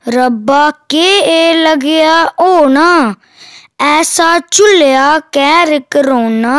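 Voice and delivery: declaimed rhyming poem with a repeated refrain; poem recitation. Acted. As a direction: recite it in steady metrical lines, drawing out the line endings.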